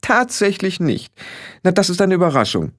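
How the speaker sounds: high-pitched mock surprise; haughty sarcasm; sarcastic. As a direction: feign surprise at the newcomer's ignorance, drawing out the start. Leader sneers at newcomer's ignorance.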